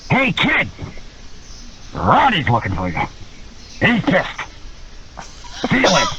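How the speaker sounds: teasing mock warning; ominous delivery with long pauses; Shawn Michaels. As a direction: lightly imitate a prankster winding up the rookie. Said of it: "Shawn Michaels decides he's gonna start playing around".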